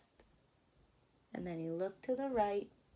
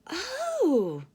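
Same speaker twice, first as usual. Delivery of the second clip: interested oh; 8 semitones higher, 9 dB louder than usual. Acted. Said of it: "said Charlie".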